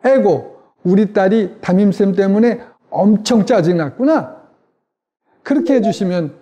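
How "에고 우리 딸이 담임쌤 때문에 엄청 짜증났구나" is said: empathetic mirroring, practice take. Shown as a demonstration. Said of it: "제 얼굴을 잘 보시면서 그대로".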